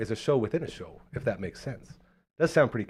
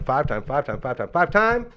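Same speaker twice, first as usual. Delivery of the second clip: building hype; 4 semitones higher than usual. Acted.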